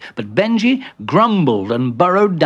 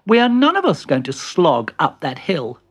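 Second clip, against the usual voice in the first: raised, assured character voice; confident Peter; 5 semitones higher, 3 dB louder than usual. Acted. Peter offering an easier way, confident raised voice. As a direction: take charge, rising higher at the end.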